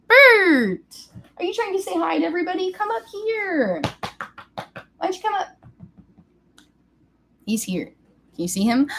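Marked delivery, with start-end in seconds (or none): 0.1-5.5 high cooing pet voice; high sing-song calling to her cat. Real, not acted. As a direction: coax the cat up sweetly.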